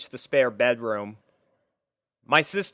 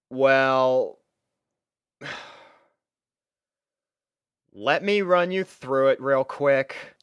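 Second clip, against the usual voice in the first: reluctant, resigned; 2 semitones higher, 4 dB louder, slower than usual. Acted. Reluctant sigh before explaining.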